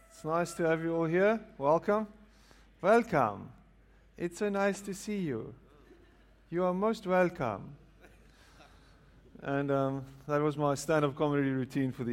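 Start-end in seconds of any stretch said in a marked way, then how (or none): 0.1-7.8 higher-pitched mock Indian accent; comic Indian-accented welcome; put-on accent, Indian. Speaker welcoming the evening crowd, in a joking Indian accent. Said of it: "what accent was that".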